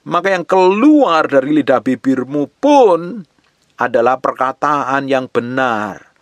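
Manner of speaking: slow, rising sermon cadence; emphatic preaching. Real, not acted. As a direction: preach it with stretched key words. Preacher builds emphatic teaching.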